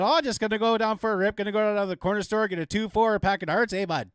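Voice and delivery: put-on Albertan accent. Albertan talking to his buddy about a beer run, lightly accented. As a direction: ease into a casual Albertan accent like heading to the corner store. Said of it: "we just have our own accent".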